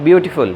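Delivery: "beautiful" with BEAU stressed, the rest light; "beautiful" said with early stress; stress on first syllable. Shown as a demonstration. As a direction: lean on the opening syllable of "beautiful". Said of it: "stressed in the beginning of words".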